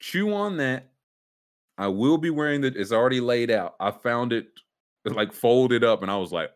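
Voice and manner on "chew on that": mock sage.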